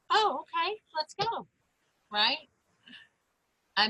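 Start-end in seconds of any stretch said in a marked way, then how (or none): 0.1-1.5 put-on high, soft little-kid voice; granddaughter giving in. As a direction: mimic a toddler quickly coming round. Voices granddaughter agreeing happily.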